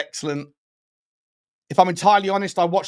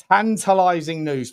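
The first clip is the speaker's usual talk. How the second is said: punchy repeat. Real, not acted.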